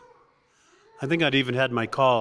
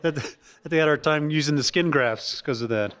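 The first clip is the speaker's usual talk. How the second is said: laughing; 2 semitones higher than usual. Real, not acted. Laughing through line.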